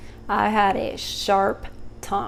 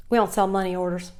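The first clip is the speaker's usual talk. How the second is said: curt clerk; 2 semitones lower, faster than usual. Retold or imitated. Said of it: "And here's her".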